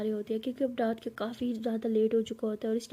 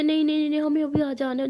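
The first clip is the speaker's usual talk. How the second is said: put-on loud, higher childish wail; kids wailing; 4 semitones higher, 5 dB louder than usual. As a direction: throw a tantrum. Kids crying loudly. (शोर मचाते बच्चे)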